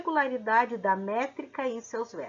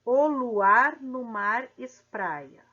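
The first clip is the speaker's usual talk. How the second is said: slow reading; 4 dB louder, slower than usual. Shown as a demonstration. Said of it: "fazendo a separação silábica de".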